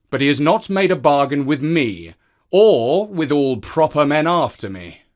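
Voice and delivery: the man objects; stubborn man. Acted.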